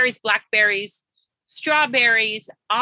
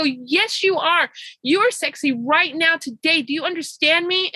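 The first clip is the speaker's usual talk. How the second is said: raised-pitch, insistent retold pep talk; emphatic affirmation; 5 semitones higher than usual. Coach insisting her client accept the compliment, emphatically. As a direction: press it on the listener as fact.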